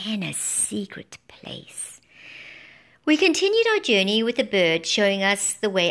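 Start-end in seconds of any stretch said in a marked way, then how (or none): 0.1-2.0 slow secret whisper; a slow hushed whisper; mysterious whisper. A narrator's reading. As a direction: hush it like a secret. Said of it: "he said mysteriously".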